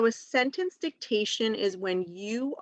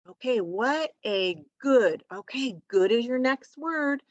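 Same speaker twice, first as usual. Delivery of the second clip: put-on upbeat teacher coaching a young child, higher pitched; encouraging; 4 semitones higher than usual. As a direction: cheer them along slowly, word by word. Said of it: "you encourage them".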